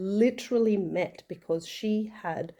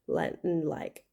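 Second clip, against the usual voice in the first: lighthearted; 3 semitones higher than usual. Retold or imitated. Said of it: "I just lightheartedly said to her".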